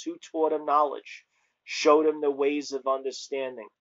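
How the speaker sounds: solemn, emphatic scripture reading. Acted. Reads scripture aloud.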